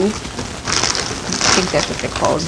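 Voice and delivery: whispered, slow aside. Real, not acted. Naming her snack to herself, whispered. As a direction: whisper it to yourself, unsure.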